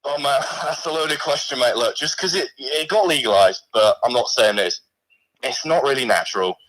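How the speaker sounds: a lightly put-on, weak Australian accent; a mock Aussie bloke voice, barely there; poor Australian accent. A severed hand calls the stream in a poor Australian accent. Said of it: "it's a pretty poor accent".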